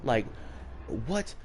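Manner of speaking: mildly acted indignant mother, pitch rising toward the end; flipping-out mom. Mom defending her son to vice principal, mildly voiced outrage. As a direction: imitate an outraged mom with restraint. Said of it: "she was flipping out".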